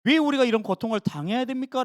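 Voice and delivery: mild grumbling why to God; a touch of sulky grumbling. Retold or imitated. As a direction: complain like a tired servant. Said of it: "투덜거리고 푸념할 때".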